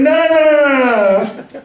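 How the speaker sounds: loud, high run of no's; cutting someone off. Acted. Babysitter stops the father about to speak, loud interruption.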